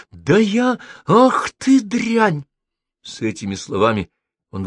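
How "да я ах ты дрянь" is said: high, slow, furious outburst; outraged. A narrator's reading. Host explodes at the insolent tenant, furious. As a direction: spit out the insult in rage.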